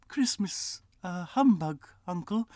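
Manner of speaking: high, light nephew voice; nephew teasing. Acted. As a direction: tease the old man gently. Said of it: "said Scrooge's nephew".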